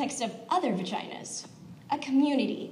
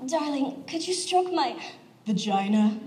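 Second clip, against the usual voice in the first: lightly acted bedroom request; mock lover. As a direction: pitch lifted, then drop on the last word. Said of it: "If you try to use it during sex".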